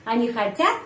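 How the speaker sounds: emphatic questioning lift on хотят; question stress. Shown as a demonstration. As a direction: ask by pushing the end of хотят up.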